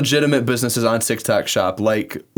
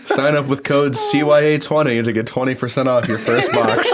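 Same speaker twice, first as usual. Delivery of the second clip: laughing ad read; 2 semitones higher than usual. Pretend. Mock sponsor ad read while laughing.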